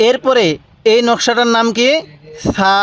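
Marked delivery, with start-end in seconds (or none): 2.5-2.7 gentle th sound opening সা; soft pronunciation. Shown as a demonstration. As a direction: say সা with a soft, lisped th. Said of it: "সাটা একটু নরম করে উচ্চারণ করবেন".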